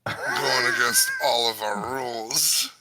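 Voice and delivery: hammed-up vampire caller; mock spooky vampire announcing himself; dark lord. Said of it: "one of these motherfuckers being like".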